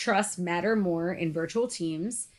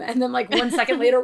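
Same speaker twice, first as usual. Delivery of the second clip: ordinary talk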